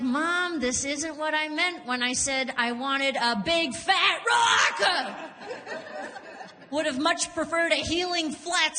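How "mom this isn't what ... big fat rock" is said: mock outrage. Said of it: "I was like".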